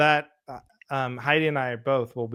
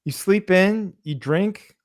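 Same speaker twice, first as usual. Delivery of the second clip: hammed-up exasperation, higher; exasperated retort; 5 semitones higher than usual. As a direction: explain the obvious, fed up.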